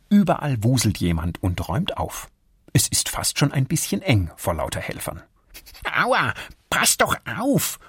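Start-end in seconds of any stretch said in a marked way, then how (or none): 5.9-7.8 high, slow squirrel yelp; a squirrel crying out when bumped; Erik calling out. Acted. Erik calls out when the hedgehog bumps him. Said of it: "ruft Erik plötzlich".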